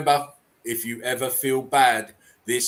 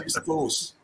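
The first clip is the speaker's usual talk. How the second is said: a mock mystical hushed whisper of Use the force; breathy whisper; 5 dB quieter than usual. Shown as a demonstration. Quoting Star Wars line twice.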